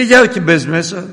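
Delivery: slow, high, loud urging; urging cousin. Retold or imitated. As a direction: drag her in, loudly. Cousin urges mother inside. (ο ξάδερφος σπρώχνει τη θεία να μπει, δυνατά και αργά)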